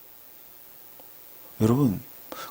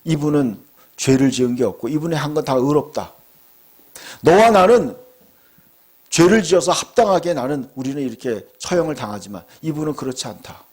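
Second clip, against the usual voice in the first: mild rebuke; 2 semitones lower than usual. Retold or imitated. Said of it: "그 사람을 꾸짖었어요".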